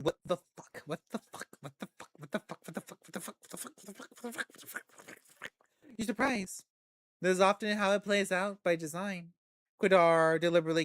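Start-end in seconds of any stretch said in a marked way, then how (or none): 0.0-5.5 repeated, fading to a whisper; panicked inner voice dying away. A narrator's reading. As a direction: let it shrink into a breathless whisper. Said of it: "The other voice just keeps saying".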